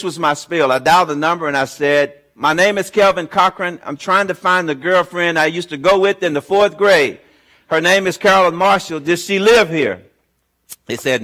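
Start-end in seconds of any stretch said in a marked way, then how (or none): 2.3-10.0 brightly hopeful, first call of many; eager, hopeful. Retold or imitated. Calling strangers hunting his fourth-grade sweetheart, eager. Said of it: "I was not as enthusiastic this time".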